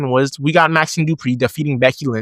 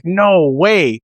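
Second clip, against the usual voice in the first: excited pop; 2 semitones higher, much slower than usual. Retold or imitated. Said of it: "I popped so loud for this".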